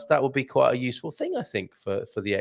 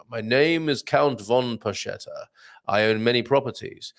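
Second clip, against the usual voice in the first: rich, fruity Count. Acted. Host mimicking the Count's voice, lightly rich and fruity. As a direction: put on a hint of a rich, fruity aristocrat. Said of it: "your voice in a sort of rich and fruity".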